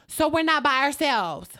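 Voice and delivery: loud, high challenging question; retold shock at not being alone; alarmed disbelief. Alarmed on learning someone is there.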